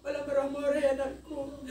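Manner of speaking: half laughing, half crying; words wobbling with tears; real crying while quoting father; tearful quote. Real, not acted. Quoting dead father's advice.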